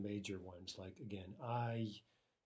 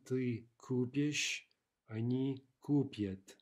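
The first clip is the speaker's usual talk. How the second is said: купишь and купят slowly, stressed on ку-; stress shifted back; slower than usual. Shown as a demonstration. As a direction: draw out the first syllable of купишь, купят. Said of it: "Now the stress shifts backwards".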